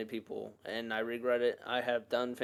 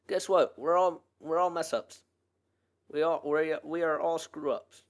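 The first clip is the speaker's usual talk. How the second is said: louder, higher, emphatic admission; 5 semitones higher, 5 dB louder than usual. Real, not acted. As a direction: declare it with force.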